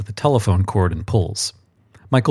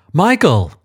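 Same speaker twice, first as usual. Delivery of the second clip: stern archangel; 7 semitones higher, 4 dB louder than usual. A narrator's reading. Archangel calls out sharply.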